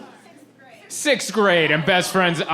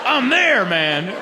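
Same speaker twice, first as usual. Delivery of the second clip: put-on eager kid; 5 semitones higher, much slower than usual. Eager kid accepting a party invite.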